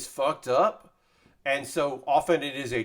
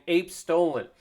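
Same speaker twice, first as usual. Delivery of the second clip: lightly voiced game announcer, a little raised; Halo announcer; 5 semitones higher, slower than usual. Viewer asks about the announcer's tweet, lightly imitated game announcer. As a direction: call it out like a multiplayer announcer, mildly. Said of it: "the Halo announcer saying".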